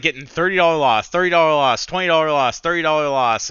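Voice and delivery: emphatic list, dollar stressed each time; hammering the losses. Real, not acted. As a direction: pound out every loss in frustration. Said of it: "listing repeated losses".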